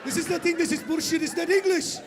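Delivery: high, baffled enemy voice; enemy spy totally lost; confused enemy listener. Retold or imitated. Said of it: "The enemy's listening going".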